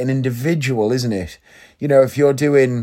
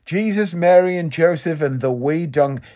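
higher-pitched mock Irish accent; Irish accent impression; 5 semitones higher than usual. Retrying a Line of Duty catchphrase, mock Irish accent. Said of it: "couldn't tell from that impression".

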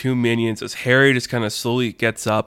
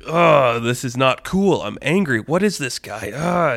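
slightly raised, cute grumbling outrage; mock minion anger; 3 semitones higher than usual. Minions getting mad at Damien, mock cute anger. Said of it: "they're visibly getting mad".

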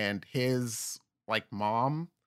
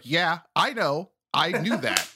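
dry sarcasm at their news; sarcastic reply; 4 semitones higher, 3 dB louder than usual. Retold or imitated. Answering the poster with sarcasm. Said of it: "And it's like".

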